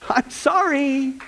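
laughing apology. Real, not acted. Laughs apologizing after joke.

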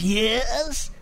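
drawn-out, scowling answer; mean scowl. Acted. Lady answers the parrot that insulted her, scowling. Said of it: "with this real mean scowl".

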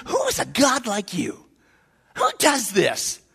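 slow, understated awe; blown away. Acted. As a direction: marvel slowly, as if blown away. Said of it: "he's like blown away like Paul".

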